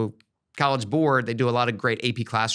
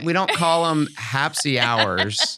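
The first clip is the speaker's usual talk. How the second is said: slow, laughing correction; correcting the cohost's wrong guess, laughing; slower than usual. Real, not acted. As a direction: laugh as you set her straight.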